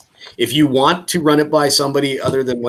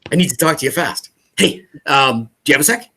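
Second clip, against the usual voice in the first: urgent, rushed tone; 4 semitones higher than usual. Shown as a demonstration. Coach demoing his phone tone to agents, mock urgent. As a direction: sound like someone is after you, asking a friend for a sec. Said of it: "This is the tone of voice. It's like".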